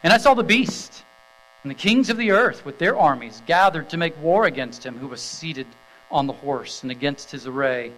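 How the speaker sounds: measured, ringing Bible reading to the congregation; scripture reading. Acted. Pastor reading Revelation nineteen to the standing congregation, solemn and proclaiming.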